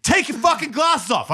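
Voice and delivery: high-pitched mock command; imitated insistent wife. Wife orders husband to remove sunglasses, high mock anger. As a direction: imitate her demanding it crossly. Retold wife's repeated demand.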